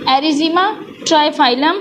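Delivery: Erythema trifilum spelled out syllable by syllable, with a pause between the words; careful pronunciation. Shown as a demonstration. Teacher pronouncing a plant name for students, slow and careful. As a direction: read the Latin name out slowly for students to copy. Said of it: "मैं pronounce इसलिए कर रही हूँ".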